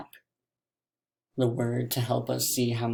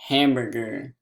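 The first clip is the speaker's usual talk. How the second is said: HAMBURGER quickly as one word; quick, unbroken HAMBURGER; said fast; 2 semitones lower than usual. Shown as a demonstration. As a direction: say HAMBURGER fast, syllables joined. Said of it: "let's say the word fast".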